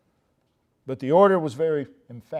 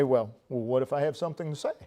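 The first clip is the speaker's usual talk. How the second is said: mock objector; 3 semitones lower, 6 dB quieter, much faster than usual. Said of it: "someone would say".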